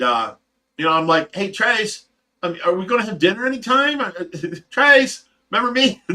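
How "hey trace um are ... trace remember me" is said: high, rushed calling out for attention; playfully neglected husband calling; mock plea. Husband calling wife away from her koi, high mock plea.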